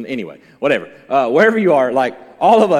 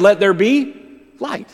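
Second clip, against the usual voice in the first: a touch louder, proclaiming; voice of God; 7 semitones higher, 6 dB louder, slower than usual. Acted. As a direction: announce it like God. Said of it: "And God said".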